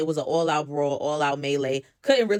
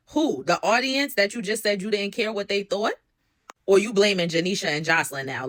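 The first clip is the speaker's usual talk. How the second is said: incredulous; 3 semitones higher than usual. Real, not acted. Mocking the retold excuse.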